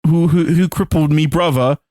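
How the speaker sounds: lightly put-on British accent for Statham; a cheeky London bloke, British accent; mock British accent. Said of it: "no, he's British".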